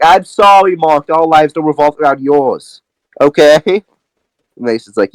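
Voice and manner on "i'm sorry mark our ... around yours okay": indignant retort. Acted. Acted retort by the speaker in quarrel.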